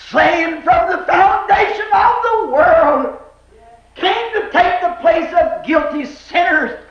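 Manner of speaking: fervent pulpit delivery, pitched high; impassioned preaching. Real, not acted. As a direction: preach it out with mounting force. Preaches at full force.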